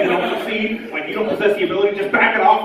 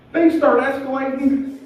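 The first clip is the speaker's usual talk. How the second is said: ominous pause; 6 semitones higher, slower than usual. Shown as a demonstration. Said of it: "I said one thing led to another".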